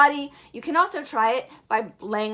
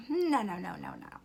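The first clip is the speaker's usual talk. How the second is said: whispered no; 9 dB quieter than usual. Real, not acted. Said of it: "I don't think so".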